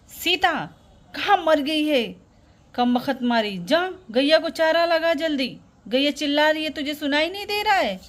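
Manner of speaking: cross mother ordering her daughter about; irritated, nagging command; scolding. Acted. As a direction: scold sharply, with mild anger.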